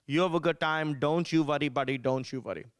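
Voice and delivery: easygoing mock Indian-accented dad; lightly voiced Indian-accent dad; dad's Indian accent. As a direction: play an indulgent father with an Indian accent. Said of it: "He's like".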